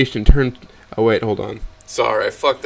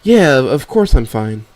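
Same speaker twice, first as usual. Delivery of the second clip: slow, slightly louder, forced "fine"; forced reassurance; 3 semitones higher, 7 dB louder, slower than usual. Acted. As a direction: insist unconvincingly, dragging it out. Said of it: "incredibly forced".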